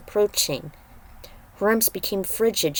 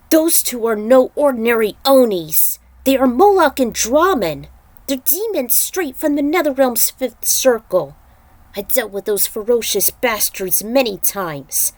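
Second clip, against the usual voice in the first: louder, serious warning; grave warning voice; 3 semitones higher, 4 dB louder than usual. Acted. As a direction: warn the heroes with weight. Character warns about the demons.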